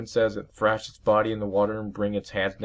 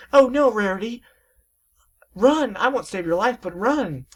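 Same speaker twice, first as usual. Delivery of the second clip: high, loud frantic call; high panicked call; urgent warning shout; 14 semitones higher, 7 dB louder than usual. Acted. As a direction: yell at Rarity to run. Twilight warns friend.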